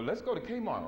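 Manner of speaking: high, swooping mimicry of an excuse; mock dodging. Sister avoiding a consciousness lesson, mock dodging.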